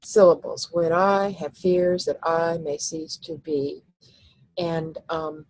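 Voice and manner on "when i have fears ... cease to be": slow, weak-strong beats, each second syllable stressed; iambic reading. Shown as a demonstration. Teacher marking iambic feet aloud slowly. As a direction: read it slow in feet of two. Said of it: "I put a slash between every two syllables".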